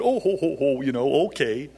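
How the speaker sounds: an old lady laughing at a pastor's advice, mock chuckle; laughing reply. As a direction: laugh it off good-naturedly in an imitated voice. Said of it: "she looked at me and laughed and said".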